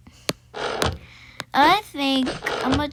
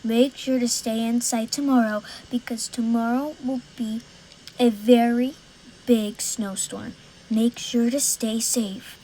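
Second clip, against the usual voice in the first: mock news read. Kid announcing a snowstorm like a news anchor.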